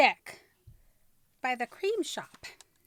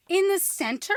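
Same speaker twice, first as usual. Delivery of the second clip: surprised; 7 semitones higher, 5 dB louder than usual. Real, not acted. Surprised echo of mirror discovery.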